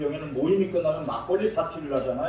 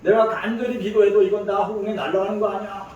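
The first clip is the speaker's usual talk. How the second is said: higher-pitched mock outburst of a fed-up mother; retold angry yelling; 5 semitones higher, 4 dB louder than usual. Mother complains to her son that her prayers are wasted, mock angry yelling. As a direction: imitate a mother yelling in frustration. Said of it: "그러면서 막 소리치는 거예요".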